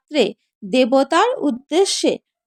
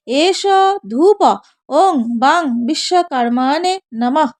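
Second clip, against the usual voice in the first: mantra recitation. Shown as a demonstration. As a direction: intone it like a priest at puja. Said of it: "বলবেন".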